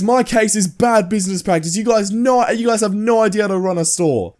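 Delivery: high-pitched mock retort; indignant Karen. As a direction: imitate a customer lecturing the staff. Retold Karen arguing back.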